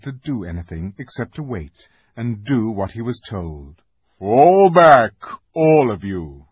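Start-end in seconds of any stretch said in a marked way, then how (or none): 4.2-6.5 loud, commanding call; lion's command. A narrator's reading. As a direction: order everyone back firmly. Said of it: "said Aslan".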